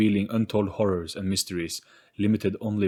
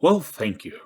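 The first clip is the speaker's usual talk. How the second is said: welcoming ghost; 5 dB louder than usual. Acted. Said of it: "Its voice also followed this change".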